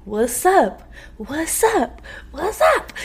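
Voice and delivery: a hint of a pushy ex calling her; imitating the ex. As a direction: climb up on each what's up. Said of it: "then say".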